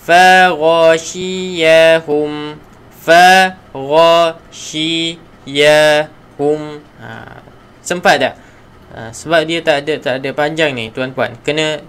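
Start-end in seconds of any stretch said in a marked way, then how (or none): 0.0-6.6 Faghashiyahum drawn out slowly, gh from the throat; teacher modelling Faghashiyahum slowly; slow Quran recitation. Shown as a demonstration. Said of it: "Okey, lagi sekali".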